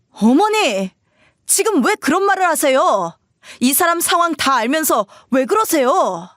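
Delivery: high-pitched, upset objection; acted frustration, appealing to mother; protesting son. Husband defending his wife to his mother, protesting.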